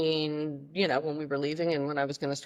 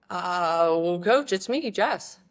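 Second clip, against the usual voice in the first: higher, hesitant and hopeful; awkward hopeful; 3 semitones higher, much slower than usual. Retold or imitated. Freshman reminding coach who she is, hesitant. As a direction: nervously remind her who you are.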